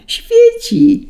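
very high, loud squeak; delighted squeal. A narrator's reading. Delighted children seeing the star, high squeal. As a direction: squeal it out with joy. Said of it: "zapiszczały ucieszone dzieci".

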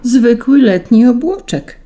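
spoken through teeth. A narrator's reading. Saint Peter correcting the angel, exasperated and pointed. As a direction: point it out with strained patience. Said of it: "wycedził".

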